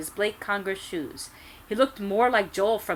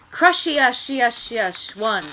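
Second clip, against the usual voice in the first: mock spell shout; 4 semitones higher, 7 dB louder, slower than usual. A narrator's reading. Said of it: "I shouted".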